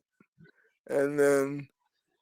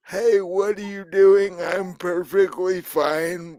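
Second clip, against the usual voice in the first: put-on drunken voice; 4 semitones higher than usual. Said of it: "you hear this drunken voice".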